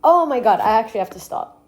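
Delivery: can't take the onion sting; teary from chopping onions. Real, not acted. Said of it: "My eyes are burning".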